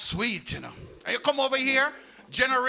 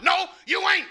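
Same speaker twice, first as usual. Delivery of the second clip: redneck; 8 semitones higher, 5 dB louder than usual. Retold or imitated. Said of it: "I said".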